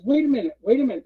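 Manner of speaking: high-pitched interjection; acted double take; halting objection. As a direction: stop everyone, imitating the boss. Boss halts the meeting.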